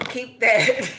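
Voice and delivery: loud brush-off; dismissive. Real, not acted. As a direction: shove it back at him. Sending energy back, dismissive.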